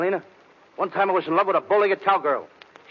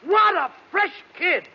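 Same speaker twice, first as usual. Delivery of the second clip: high slow catchphrase; 9 semitones higher, slower than usual. Acted. Catchphrase retort.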